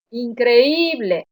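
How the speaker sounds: increíble drawn out slowly on the stressed Í. Shown as a demonstration. Teacher showing an example of a strong weak vowel, stressed Í in increíble. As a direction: stretch the Í in increíble. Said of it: "llevan la intensidad de la palabra".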